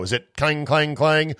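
imitating a hollow metal clang; playful clanging noise; clang sound. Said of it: "like an empty Christmas tree".

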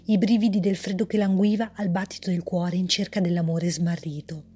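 measured, even storyteller reading; story narration. A narrator's reading. Author reading her story aloud, calm narration. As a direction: read the tale calmly to listeners.

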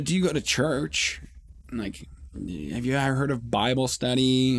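put-on a light Asian accent on the shopkeeper's question; lightly voiced accented shopkeeper asking about church; mild imitation of the shopkeeper's accent. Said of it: "they've got a heavy accent".

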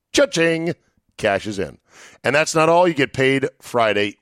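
punchy sponsor read, selling hard. Acted. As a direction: pitch it like a radio spot.

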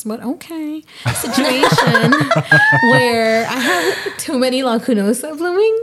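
laughing through a humble brag. Real, not acted. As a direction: giggle through the words. Weird flex brag, laughing.

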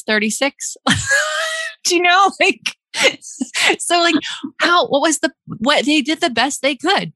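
high, cracking laugh-cry; laughing through tears. Real, not acted. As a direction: laugh until it turns into crying.

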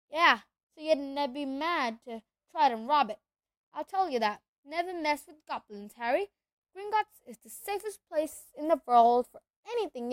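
big booming half-giant; rough country giant voice; gruff giant voice. Acted. Hagrid voice held.

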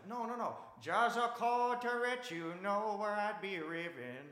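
put-on loud, high Asian accent sliding into slow song-like delivery; mock Asian accent. Guy correcting the musician with the song, loud mock Asian accent. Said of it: "You can't fake that accent".

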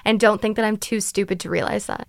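a loud, lightly put-on Irish scold; hammed-up Irish accent, accusing; mock Irish accent. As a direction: imitate the Irish employee telling her off, hint of brogue. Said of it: "in her little Irish accent".

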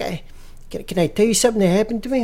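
Giovanni. Retold or imitated. G-Money asks Ben for a chat, high put-on voice. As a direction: ask for a chat in a high old-man voice. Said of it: "He's like".

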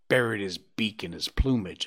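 ordinary delivery, nothing marked

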